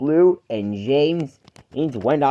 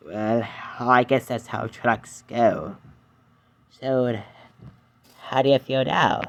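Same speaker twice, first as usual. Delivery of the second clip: Edward's voice. Acted.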